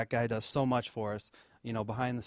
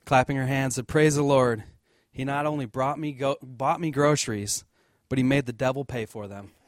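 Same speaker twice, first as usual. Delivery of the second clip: loud happy exclamation; joyful rejoicing; 7 dB louder than usual. Retold or imitated. Old lady rejoicing at her groceries, loud and joyful. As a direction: celebrate it like she just won.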